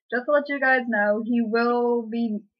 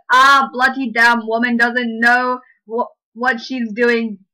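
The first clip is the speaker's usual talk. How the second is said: slow, louder fake-British grumble; mock British grumble; 4 dB louder, slower than usual. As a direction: grouse like a cartoon Brit. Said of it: "How's that British?".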